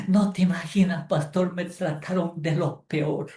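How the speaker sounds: half-hearted mimic of a teary grievance; mock tearful complaint. Church lady lamenting to the pastor, mock tearful. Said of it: "Hay damas que lloran, dicen".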